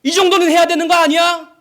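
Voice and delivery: preacher voicing the devil's loud taunt. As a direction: bait him like the tempter daring a proof. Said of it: "마귀는 뭐라고 유혹했다고요?".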